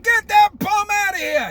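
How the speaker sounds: high, loud retold order; imitating the president. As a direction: throw out a heckler, mimicking a rally speaker. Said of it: "He said".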